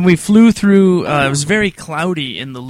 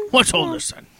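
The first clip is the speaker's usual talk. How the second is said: high English policeman voice; English bobby; 11 semitones higher than usual. Pretend. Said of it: "English accent".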